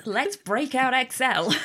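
slow words through a laugh. Real, not acted. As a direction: laugh while saying it. Joking about spreadsheets on air.

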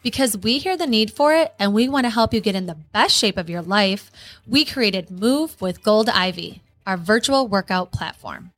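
ad read. Acted. Ad read over music.

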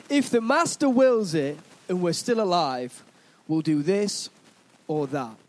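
measured Bible reading with rolling phrases; scripture reading. Acted. Preacher reading James to the church, measured scripture reading. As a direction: read it out to a congregation, phrase by phrase. Reads Bible verse aloud.

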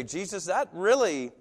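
rising protest, pitch climbing; an aggrieved churchgoer pleading with Jesus; complaining to Jesus. Retold or imitated. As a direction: whine that it's not fair. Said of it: "so bold as to say".

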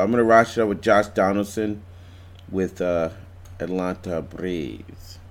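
overdone foreign pronunciation of Atlanta Braves; said with an accent. Real, not acted. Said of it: "I don't know why I said it with an accent".

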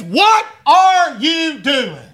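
put-on slow, drawn-out yell at the kids; mock parent shout. Parent catching kids in the act, slow mock shout. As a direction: call out like a fed-up parent.

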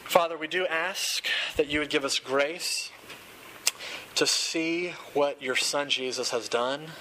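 gentle pastor's prayer. Real, not acted. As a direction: pray it sincerely to the congregation.

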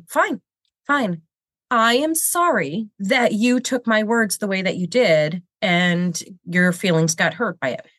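reluctant "fine, fine", then a condescending sorry; grudging backhanded apology. Shown as a demonstration. To someone demanding an apology, a grudging sorry. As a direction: give the apology like it costs you. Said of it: "That's a backhanded apology".

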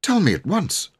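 a vicar questioning sternly; severe. A narrator's reading. Vicar demands an answer from the children, mildly severe. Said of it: "he asked severely".

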